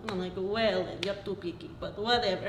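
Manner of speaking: put-on light Slovak accent; a hint of a Slovak accent. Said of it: "Slovak accent".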